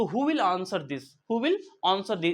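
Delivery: slow, clear teacher demo; slow classroom model line; slow model sentence. Shown as a demonstration. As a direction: say each word slowly for students to copy. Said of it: "आपने पूछा कि बताइए इसका जवाब कौन देगा".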